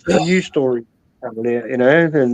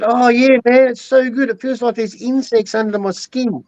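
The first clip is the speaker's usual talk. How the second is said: higher, hammed-up stoner voice raving about bugs; mock ice addict; 7 semitones higher than usual. Mocking ice users to his mate, hammed-up giddy addict. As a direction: play a giddy junkie loving it.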